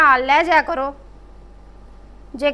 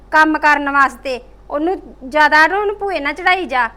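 loud, aggrieved daughter complaining about her sister-in-law; indignant complaint; 2 semitones higher, 4 dB louder than usual. Acted. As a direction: scold the mother for spoiling her.

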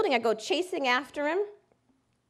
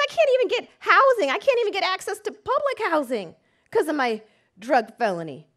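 desperate shout; 5 semitones higher, 7 dB louder than usual. Retold or imitated. Enraged client, desperate.

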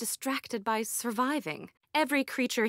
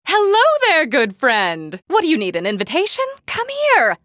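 loud, high hail across the camp; calling out loud; 6 semitones higher, 13 dB louder than usual. Acted. Eccentric scientist hailing a stranger across camp, shouting. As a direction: shout to get a stranger's attention. NPC hailing passer-by from afar.

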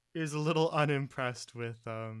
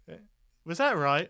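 louder, puzzled check; unsure question; 5 semitones higher, 9 dB louder than usual. Acted. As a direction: ask if you did it right. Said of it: "touches her hand and goes".

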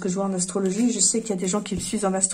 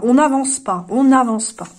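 louder, exasperated, hammering it home; real frustration; 3 semitones higher, 5 dB louder than usual. Real, not acted. Fortune teller venting to her viewers, louder and exasperated. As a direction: vent that nothing moves forward. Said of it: "je suis remontée".

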